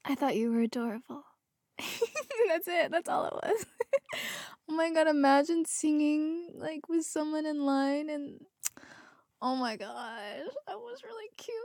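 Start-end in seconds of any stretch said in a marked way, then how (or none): 1.8-11.6 teary laugh. Real, not acted. Laughing-crying over sweet post.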